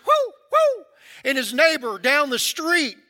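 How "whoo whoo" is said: high, loud hollering call; hog-calling holler. Retold or imitated. Comedian calling his dogs out from under the porch, high loud holler. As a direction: holler it out across the yard like calling hounds. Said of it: "And he goes".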